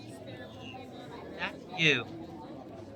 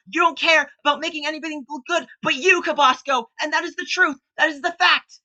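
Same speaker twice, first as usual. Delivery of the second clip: getting hysterical; 2 semitones higher than usual. Real, not acted. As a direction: lose control as you defend yourself. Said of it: "I'm sorry for getting hysterical".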